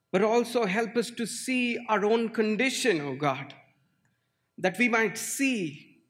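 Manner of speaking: pastor praying aloud with rising fervour; fervent prayer. Acted. Pastor praying over the congregation, fervent.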